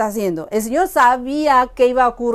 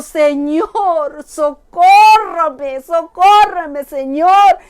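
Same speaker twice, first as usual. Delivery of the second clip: slow pleading; 3 semitones higher, 5 dB louder, much slower than usual. Acted. Kneeling woman begging Jesus.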